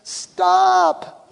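high, loud cry of stop; the pastor halting the interruptions with a loud high stop; sharp stop. Retold or imitated. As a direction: cut them off sharply. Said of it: "I'm like".

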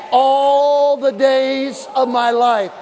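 slow, stretched preaching refrain; drawn-out refrain. Acted. Preacher stretching the refrain for the church, slow and drawn out. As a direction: draw every word out for the congregation.

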